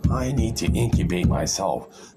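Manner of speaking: slowed, settled restatement; slow deliberate repeat. Retold or imitated. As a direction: draw it out after the outburst. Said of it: "Super Egg's like".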